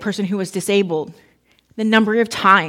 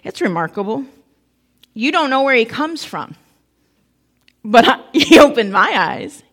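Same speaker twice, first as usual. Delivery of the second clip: sarcastic retort; 4 dB louder than usual. Retold or imitated. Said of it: "he gets sarcastic in verse thirty".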